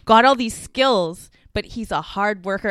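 football commentator voice. Retold or imitated. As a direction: hype him up like a pundit. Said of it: "they were like".

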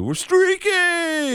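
high, drawn-out gleeful holler; high-pitched crowd cry, stretched out; mimicked streakers' yell. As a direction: whoop it long and high like a streaker. Mimics crowd yelling while streaking.

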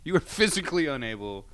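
lightly hammed-up self-sabotage; self-excusing inner voice. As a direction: play up the helpless excuse. Mimics own self-sabotaging excuse.

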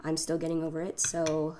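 phlegmy voice. Real, not acted. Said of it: "apologize for my sexy phlegm voice".

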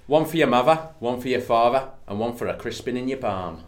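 put-on a Cockney line drifting into a light northern accent; slipping northern. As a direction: try Cockney, but let it slide north. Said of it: "That one went a bit northern".

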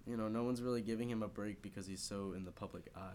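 talking through a sniffly blocked nose; stuffy nose that sounds almost teary. Real, not acted. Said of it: "I sound like I'm crying 'cause my nose is sniffly".

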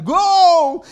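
loud, high cry of "Gol!"; goal shout. Retold or imitated. Preacher mimics a fan cheering a goal, excited yell. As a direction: celebrate a goal at full voice. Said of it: "gritar por uma necessidade".

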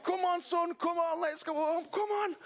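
a father leading his son home to a party; delighted father. Acted.

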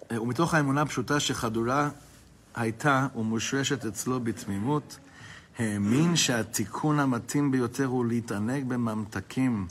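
fast, rattled-off reading of the Hebrew passage; text reading. Acted. Teacher reading the book aloud to his class, quickly. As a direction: race through the printed lines in study-hall chant.

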